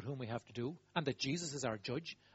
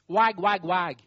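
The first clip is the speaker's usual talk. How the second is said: mock finger wag; 3 semitones higher, 10 dB louder, much slower than usual. Mock scolding sound.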